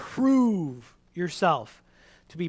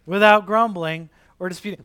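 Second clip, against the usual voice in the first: slow and louder, leaning on all; preacher drilling the verse, slow and louder; slow emphatic recital; 4 semitones higher, 9 dB louder than usual. Shown as a demonstration. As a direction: drill it home word by word. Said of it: "Let's say it together".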